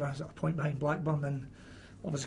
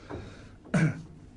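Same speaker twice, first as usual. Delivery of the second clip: winded cough after stairs; breathless cough. Real, not acted. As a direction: cough while catching breath. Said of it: "I'm out of breath running upstairs".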